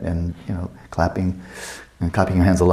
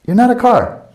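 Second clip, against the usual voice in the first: amused emphasis; 13 semitones higher, 6 dB louder than usual. Real, not acted. Punchline, high and loud.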